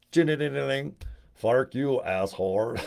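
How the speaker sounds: mock gun sound, then a deadpan insult; Arnold comeback. The Terminator firing back at the guy at the door, mock-tough. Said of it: "Then he goes".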